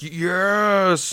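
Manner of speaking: high, loud thrilled yes; excited yes. Retold or imitated. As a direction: burst out with fan excitement. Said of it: "I was like".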